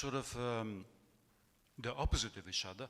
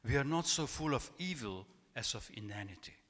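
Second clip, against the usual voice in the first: louder, measured reading aloud from a text; reading a quote; 4 dB louder than usual. Acted. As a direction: read it out to the audience with weight. Reads Montaigne quote aloud.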